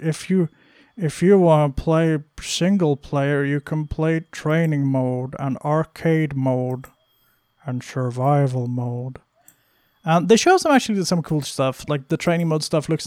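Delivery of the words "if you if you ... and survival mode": fighting game announcer. Retold or imitated. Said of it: "the announcer voice is the funniest thing".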